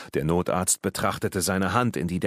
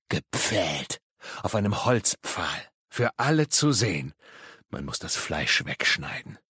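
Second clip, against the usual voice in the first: zombie-like madman; 3 semitones lower than usual. Acted. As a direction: relish each phrase with long pauses. Madman's impaling monologue in a held voice. (unheimlicher Irrer, langsam und stockend)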